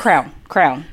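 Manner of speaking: "Crown" for crayon, one low syllable. Shown as a demonstration. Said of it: "but they say crown".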